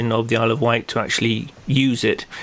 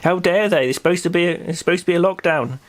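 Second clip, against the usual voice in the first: higher, mock-prim tut-tutting; disapproving neighbour; 5 semitones higher than usual. Curtain-twitching neighbours tutting at the celebrations, mock prim disapproval. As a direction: play the curtain-twitcher clucking her tongue. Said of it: "hide behind curtains going".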